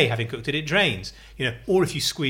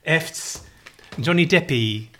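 renaissance fair olde speech; 2 semitones higher than usual. Pretend. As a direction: tell it like a mock minstrel. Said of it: "Are you literally speaking in Old English?".

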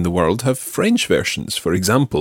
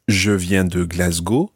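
"Glasgow" pronounced the French way in a slow French phrase; Glasgow in French accent; 2 semitones lower than usual. Shown as a demonstration. Teacher showing learners the better way, "Glasgow" in a French accent. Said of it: "say them in a French accent".

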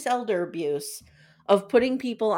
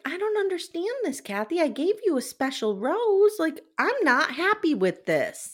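disappointed dad voice; 7 semitones higher than usual. Retold or imitated. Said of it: "Gary's like".

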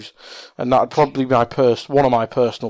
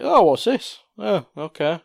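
high curious question, settling into acceptance; recalled reaction, perking up then easing off; retold mild curiosity; 4 semitones higher than usual. Group reacting to game reveal.

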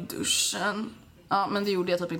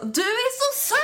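put-on much higher, sing-song drunk gush; 14 semitones higher, slower than usual. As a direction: coo it like a happy drunk. Drunk at Halloween party. (mycket ljus, översvallande fyllröst)

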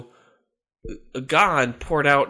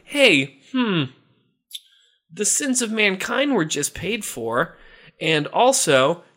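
Satan realizing; 7 semitones higher than usual. Acted. Satan realizes Jesus is alive, climbing to a high panicked squeak. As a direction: let the dawning horror break high. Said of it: "he realized".

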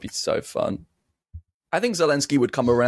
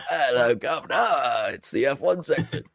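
posh voice. Retold or imitated. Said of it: "talking like posh people".

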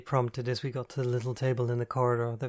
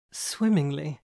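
louder, drawn-out grand proclamation; grand oration; 4 semitones higher, 5 dB louder, slower than usual. Acted. Andy answers grandly, louder, like a stage star. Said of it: "he orated grandly".

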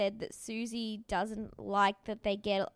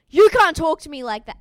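much louder indignant yell, a touch higher; mock shout; 6 semitones higher, 17 dB louder than usual. Retelling Billy snapping at Susie, hammed-up loud yell. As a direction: bellow it like a wounded tough guy. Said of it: "Billy's next words are".

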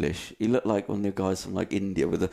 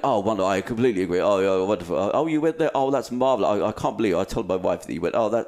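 imitating posh men. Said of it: "so posh".

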